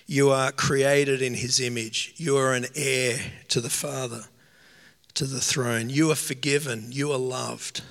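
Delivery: Holy Spirit's voice. Acted. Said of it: "what I believe the Holy Spirit says to you".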